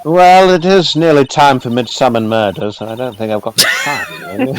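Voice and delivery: lightly voiced rambling old judge; a hint of a doddery old judge; old man voice. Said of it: "You just got the perfect old man voice".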